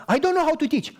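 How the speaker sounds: the woman balking at teaching, lightly voiced; mock flustered protest. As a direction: protest nervously.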